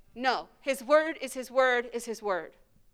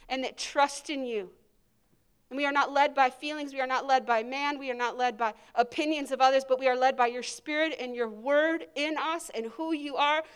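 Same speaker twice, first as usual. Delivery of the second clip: a prayer that builds from gentle to louder and fervent; spoken prayer; 3 dB louder than usual. Acted. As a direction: pray aloud, rising with conviction. Leads congregation in prayer.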